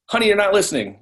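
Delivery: a spouse hurt at not being heard; pleading spouse. Retold or imitated. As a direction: whine it at your partner, pitch up. Acted spouse complaining in marriage.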